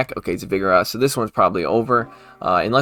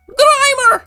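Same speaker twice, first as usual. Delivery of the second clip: very high, loud squeaky creature cry; shrill cartoon creature shout; Grimer noise; 8 dB louder than usual. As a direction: squeal it like a tiny blob monster. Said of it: "the noise he makes".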